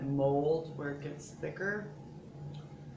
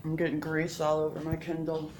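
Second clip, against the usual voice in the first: mouth full; 5 dB louder than usual. Real, not acted. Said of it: "talk with your mouth full".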